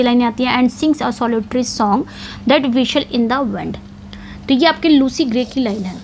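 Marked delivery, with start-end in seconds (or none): 0.6-3.8 slow, careful poem reading; slow recitation. Shown as a demonstration. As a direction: read the poem lines out very slowly.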